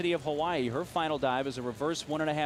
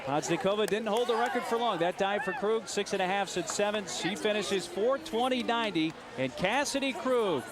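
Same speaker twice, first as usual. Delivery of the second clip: excited; 4 semitones higher than usual. Real, not acted. Announcer calling the winner.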